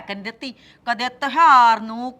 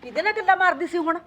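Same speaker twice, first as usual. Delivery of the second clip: higher, fast suspicious question; accusing demand; 5 semitones higher, faster than usual. Acted. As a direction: pounce on her with the question. Mother-in-law confronts daughter-in-law. (ਸੱਸ ਦਾ ਨੂੰਹ ਤੋਂ ਸ਼ੱਕੀ ਸਵਾਲ)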